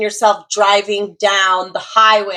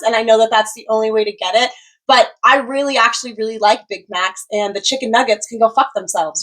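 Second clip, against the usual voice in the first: openly accepting. Retold or imitated. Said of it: "receive it openly".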